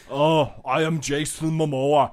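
lightly voiced Austrian strongman accent; a hint of a muscleman film-star impression; Arnie. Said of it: "you did a vaguely Arnie-ish thing".

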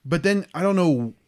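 shaky, nervous voice; stage fright. Real, not acted. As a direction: talk through real nervous shaking. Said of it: "I'm shaking right now".

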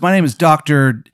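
a surfer dude playing doctor; surfer bro doctor. Doctor Daniel Dude greeting his patient, bro voice. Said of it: "He goes".

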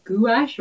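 gouache said as "goo-ASH"; unsure stab at gouache as "goo-ash"; tentative pronunciation. Shown as a demonstration. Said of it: "don't actually know how to pronounce".

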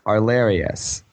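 "Arlarius" as ar-LAIR-ee-us, four syllables; mispronounced name. Retold or imitated. Podcaster quoting guildmates who botch the name, mispronounced. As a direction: say "Arlarius" with an extra "ee" syllable before the end. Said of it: "they kept saying my name".

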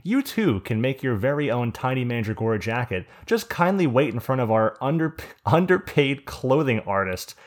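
put-on hammy old-time ad announcer voice; old radio announcer. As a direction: read it like a vintage radio sponsor spot. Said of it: "we have a sponsorship we have to shout out".

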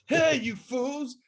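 slow, high, loud call to the fools; hammed-up scolding yell; mock shout. Shakespeare calls his audience fools, slow high mock shout.

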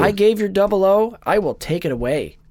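put-on light British accent as M; a hint of a stern British boss; mild British M impression. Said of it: "she says in a British accent".

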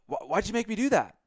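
high, stammering mock whine; hammed-up flustered player whining; whiny blame. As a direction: pin the blame like a flustered man. Will Ferrell whining at Paul.

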